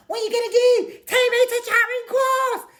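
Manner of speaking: high-pitched retold scream at the police; yelling it high and loud, taunting them. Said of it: "I was screaming at them".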